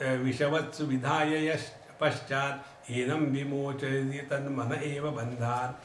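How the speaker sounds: measured Sanskrit verse recital; scripture recitation. Real, not acted. Teacher quotes scripture to listeners, measured recitation. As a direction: recite the verse evenly, phrase by phrase.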